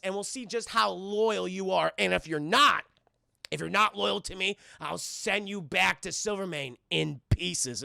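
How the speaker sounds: slow, deliberate villain threat; mock menace. Kingpin warning Hammerhead to stay loyal, slow mock menace. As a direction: draw out the threat as a play-acted crime boss.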